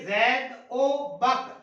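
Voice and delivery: Zaid او Bakr said slowly, the و joined as a short "o"; teacher modelling the "o" sound; slow careful example. Shown as a demonstration. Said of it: "او اس کا تلفظ جو ہے وہ ہم کرتے ہیں".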